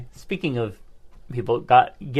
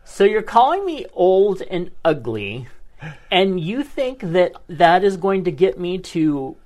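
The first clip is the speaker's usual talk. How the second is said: indignant retort; 4 semitones higher than usual. Retold or imitated. Retold angry retort to friend.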